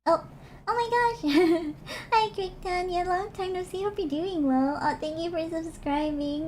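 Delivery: excited. Real, not acted. Greets a subscriber excitedly.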